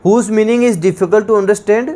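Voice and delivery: slow, deliberate definition; slow dictation. Shown as a demonstration. Teacher repeating a definition slowly to students. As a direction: read it slowly, word by word. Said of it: "dictating definition".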